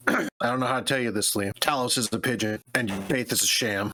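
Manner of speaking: deadpan, dead serious delivery; completely serious. Acted. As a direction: say it with a straight face. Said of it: "with complete seriousness".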